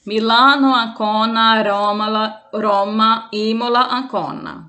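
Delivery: deliberate, word by word city list; spelling out by code words. Shown as a demonstration. Teacher showing students how to spell a name aloud, spelled out word by word. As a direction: spell it out clearly, one city at a time. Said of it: "Então, eu vou falar".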